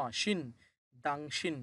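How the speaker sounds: teacher joining syllables into দাংশিন; building the word. Shown as a demonstration. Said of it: "উচ্চারণ হবে".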